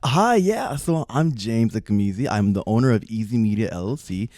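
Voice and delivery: polite, upbeat sales pitch voice; customer service voice. Retold or imitated. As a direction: switch into your friendly pitch voice. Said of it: "you should see how I talk to white women when they pitch me".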